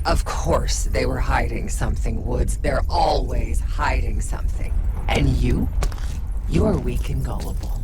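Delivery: mock him for his naivety; scornful taunt. Jane's other self taunting the interrogator, loud sneer. A second personality takes over, scornful.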